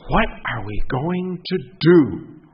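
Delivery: gasp, then slow tearful plea; a wife near tears asking what now; sobbing voice. Acted. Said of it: "with a sobbing voice she said".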